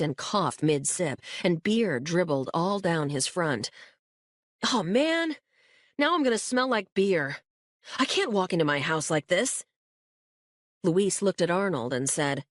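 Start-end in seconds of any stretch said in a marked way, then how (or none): 4.7-9.6 high, dismayed whining; dismayed whine. Acted. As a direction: whine about the spill. Josh spilled beer on himself.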